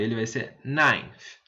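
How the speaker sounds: ninth said slowly and clearly; ninth, teacher demo; model pronunciation. Shown as a demonstration. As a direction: model the word ninth for the class. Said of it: "Agora o nove".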